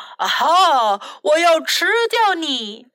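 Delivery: lightly acted dragon cry; a touch of storybook villain menace; mean dragon. A narrator's reading. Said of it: "恶龙喊道".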